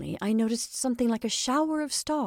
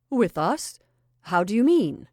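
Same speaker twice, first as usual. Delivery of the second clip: furious; 2 semitones higher, 7 dB louder than usual. A narrator's reading. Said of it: "looking more and more furious".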